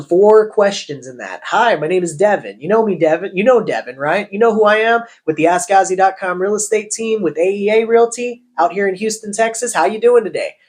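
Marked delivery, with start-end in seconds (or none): 1.4-10.6 rising, questioning call intro. Shown as a demonstration. Agent cold-calling a prospect, every phrase a question. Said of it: "I just asked a bunch of questions".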